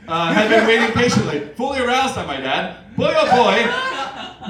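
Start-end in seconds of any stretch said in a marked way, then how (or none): 3.0-4.5 slow, drawn-out mock moan; moaning Jefferson. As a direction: stretch it out like a lazy groan. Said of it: "moaned Thomas Jeff".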